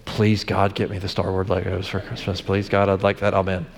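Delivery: put-on hushed little boy praying for toys; child's prayer. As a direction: quietly imitate a boy begging God for Legos. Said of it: "I'd see him going".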